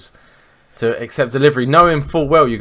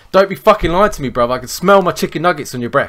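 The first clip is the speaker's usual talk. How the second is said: mock-furious, louder and higher confrontation; angry Luton lad; 5 semitones higher, 4 dB louder than usual. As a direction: lay into the neighbour like a hammed-up Luton lad. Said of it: "how would a Lutoner deal with this".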